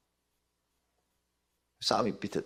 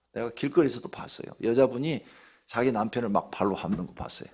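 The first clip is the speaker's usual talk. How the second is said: usual speaking voice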